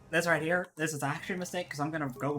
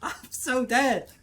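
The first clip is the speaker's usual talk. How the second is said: slow, high, loud wailing; drawn-out, high cries of dread; panicked wail; 7 semitones higher, 6 dB louder, much slower than usual. Real, not acted. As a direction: cry out in doomed game panic. Player sure he is about to die.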